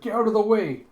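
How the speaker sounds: high, loud acted yell; urgent shout. Attacker with a hammer clearing the way, acted shout. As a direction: bark it as a warning.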